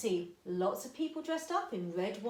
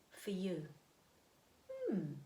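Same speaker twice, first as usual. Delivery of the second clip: whispered question to the class; 4 semitones lower, 6 dB quieter than usual. Shown as a demonstration. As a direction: whisper it to draw them in. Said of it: "Think, what's the most".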